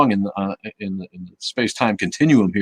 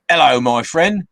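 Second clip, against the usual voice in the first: higher, put-on Cockney greeting; Cockney accent; 6 semitones higher, 4 dB louder than usual. Host reading a viewer's written greeting, mock Cockney accent. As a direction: try out a playful Cockney accent. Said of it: "is that a Cockney accent?".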